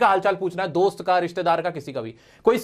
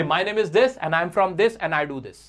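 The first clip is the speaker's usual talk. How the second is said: 1 slow template demo; 3 semitones lower, much slower than usual. Shown as a demonstration. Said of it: "एकदम बड़ी fluency के साथ".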